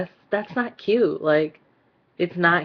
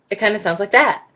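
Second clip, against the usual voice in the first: THAT lifted at the end like a question; question-like statement; 4 semitones higher than usual. Shown as a demonstration. Demonstrating the hated habit, uptalk on THAT. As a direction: tip THAT upward, as if asking. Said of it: "whenever it's said".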